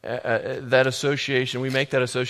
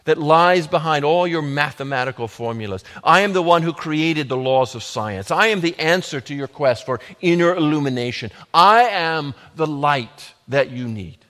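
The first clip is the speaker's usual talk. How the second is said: ringing, louder proclamation in the first person; preached voice of Jesus; 2 semitones higher, 5 dB louder than usual. Acted. Preacher voicing Jesus to the congregation, proclaiming loudly. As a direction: declare it as Jesus, rising and full. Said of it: "Jesus is saying".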